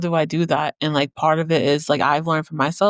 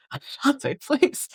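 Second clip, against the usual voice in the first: laughing protest; 8 semitones higher, 4 dB quieter, slower than usual. Real, not acted. Overwhelmed by praise, laughing.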